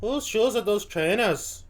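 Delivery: imitation Welsh, rising question; Welsh accent attempt. Viewer copying the comedian, in an attempted Welsh accent. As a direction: have a go at confused Welsh. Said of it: "To do a good Welsh accent".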